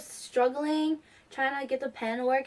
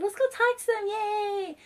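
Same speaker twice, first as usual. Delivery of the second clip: much higher, bright grandma voice; grandma urging her granddaughter to go talk to them, high and eager; imitating grandma; 10 semitones higher, slower than usual. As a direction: mimic a cheerful eager grandma. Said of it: "she's so calm".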